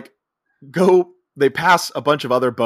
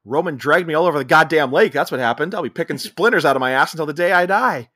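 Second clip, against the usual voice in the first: retold angry rant; 4 semitones higher, 3 dB louder than usual. Chet angrily answers wife, retold.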